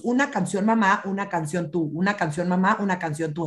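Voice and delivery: sing-song "una canción mamá, una canción tú"; alternating turns. Shown as a demonstration. Parent modelling turn-taking in the car, rhythmic and playful. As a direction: stress on "mamá" and "tú" as they alternate. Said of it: "tomar turnos".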